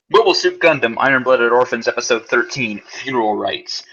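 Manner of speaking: announcer voice. Pretend. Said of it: "his voice changed a little bit when he started doing the announcing".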